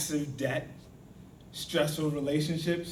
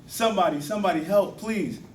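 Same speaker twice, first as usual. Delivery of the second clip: moderately raised, higher cry for help; mock yelling; 4 semitones higher, 5 dB louder than usual. Joe trapped down a hole, calling for help, mock yelling. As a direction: call out for help, pleading, without a full yell.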